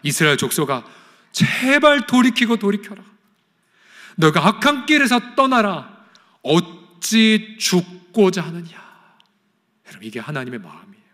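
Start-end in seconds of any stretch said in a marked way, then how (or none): 0.0-8.7 God pleading. Acted. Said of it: "그러면서 주님 말씀하십니다".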